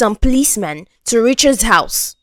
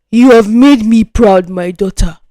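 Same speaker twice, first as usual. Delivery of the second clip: a hint of a proud father; lightly voiced father, pleased; proud beaming father; 4 dB louder than usual. Father to daughter at graduation, a hint of pride. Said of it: "he said, beaming".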